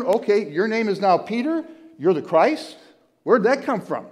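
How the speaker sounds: mock amazement at the leap; where'd that come from, amazed; incredulous. Incredulous retelling.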